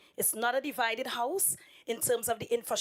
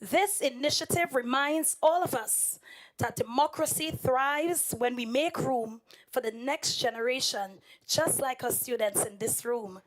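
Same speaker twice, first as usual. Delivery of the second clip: measured oratory with weighty pauses; formal speech. Real, not acted. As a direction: address the chamber in deliberate, emphatic phrases. Delivers a prepared formal address.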